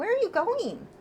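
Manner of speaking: high-pitched pet talk.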